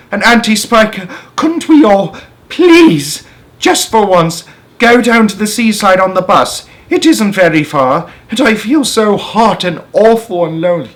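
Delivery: crying out. Acted. James begging his aunts for a trip, high pleading child. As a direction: cry out as a desperate little boy. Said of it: "James cried out".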